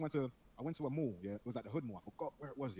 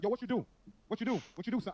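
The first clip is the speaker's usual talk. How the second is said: imitated in-your-face yell, higher and louder; retold yelling; 8 semitones higher, 7 dB louder than usual. Student from New York in his face, imitated yelling. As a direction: fire questions like a yelling stranger. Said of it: "why is this brother yelling at me in my face".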